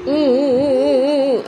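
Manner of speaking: playful fake whimpering oo oo oo; mock crying. Shown as a demonstration. Parent showing baby how big brother cries, mock whimper. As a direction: imitate a child's sob for the baby, hammed-up. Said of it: "कसा रडतो दादा?".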